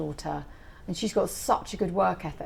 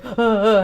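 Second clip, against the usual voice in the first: loud mock sobbing gasp, higher; mock sob; 4 semitones higher, 8 dB louder than usual. Crying over a book in bed at midnight, mock sob. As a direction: let out a hammed-up sob.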